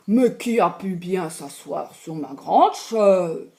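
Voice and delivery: lightly voiced gruff big bear, booming a bit. Papa bear finding his chair used, lightly booming. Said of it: "il s'écrie de sa grosse voix".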